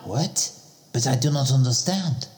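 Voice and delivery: put-on French accent. Same French-accented character.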